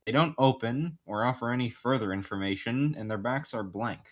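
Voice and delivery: measured game master narration. Acted. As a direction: describe the scene to the player.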